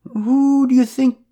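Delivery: high, slow, curious question. A narrator's reading. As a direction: ask with innocent curiosity. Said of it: "I asked curiously".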